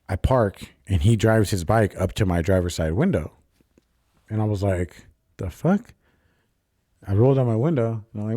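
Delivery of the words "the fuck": high, startled mock reaction; a hint of alarm, pitched up fast; startled the fuck. Alarmed at the stranger riding up, a quick high reaction.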